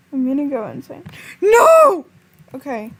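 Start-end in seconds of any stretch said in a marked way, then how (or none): 1.4-2.1 high, loud shriek breaking into a laugh; real half-laughing shriek; laughing scream. Real, not acted.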